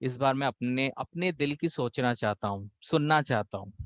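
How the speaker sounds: gently but firmly tell your father; soft respectful apology to father; assertive, polite. Retold or imitated. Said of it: "जो assertive होगा".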